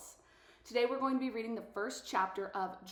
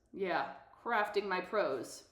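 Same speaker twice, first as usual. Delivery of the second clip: smug echo; slower than usual. Retold or imitated. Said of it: "Two can play this game".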